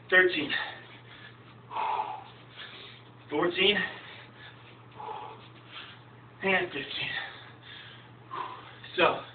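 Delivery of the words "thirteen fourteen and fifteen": counting workout reps. Real, not acted. Counting final burpee reps.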